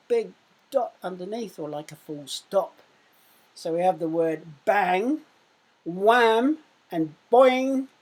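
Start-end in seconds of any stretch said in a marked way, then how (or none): 3.5-5.2 louder, punching bang. Shown as a demonstration. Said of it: "when I raise my voice". 5.8-7.9 high and loud, bouncy sound words. Shown as a demonstration. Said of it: "when I raise my voice".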